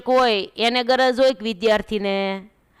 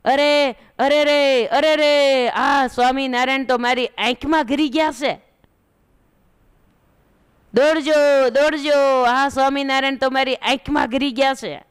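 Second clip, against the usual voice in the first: put-on raised, alarmed cries of an old woman; retold panicked shouting; old woman crying out; 4 semitones higher than usual. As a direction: call for help as if your eye is burning. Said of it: "ડોશીમાએ તો બૂમા બૂમ કરવા માંડ્યા".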